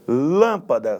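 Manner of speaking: "lâmpada" with weight on "lâm"; stress on first syllable. Shown as a demonstration. Teacher illustrating proparoxytones, first-syllable stress on "lâmpada". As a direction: lean on "lâm", let "pada" drop. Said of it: "lã".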